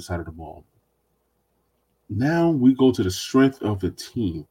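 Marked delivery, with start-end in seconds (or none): 2.1-4.5 sarcastic. Real, not acted. Podcast host introduces the team's supposed strongest group, sarcastically. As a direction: draw it out with sarcastic pomp. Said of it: "I love your sarcasm".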